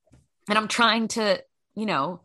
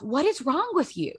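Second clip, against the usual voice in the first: mock self-scolding; 6 semitones higher than usual. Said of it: "I really said to myself".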